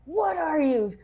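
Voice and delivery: high, mocking officer voice. Officer mocking recruit as hippie, hammed-up high. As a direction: sneer out the hippie jab. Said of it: "he was like".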